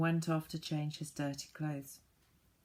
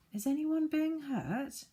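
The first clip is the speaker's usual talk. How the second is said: high, raised call into the night; 10 semitones higher than usual. A narrator's reading. Joe calling out the window to the unseen screecher, high and raised. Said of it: "he called".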